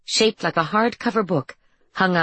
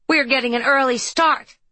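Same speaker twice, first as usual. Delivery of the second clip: put-on high girl's voice; 8 semitones higher than usual. A narrator's reading. Girl's voice at door.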